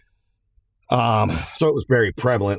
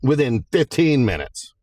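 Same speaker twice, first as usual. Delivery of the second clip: a hint of a pointed judge, higher; imitating the judge; 5 semitones higher than usual. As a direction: challenge the lawyers with a mild rhetorical question. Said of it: "She goes".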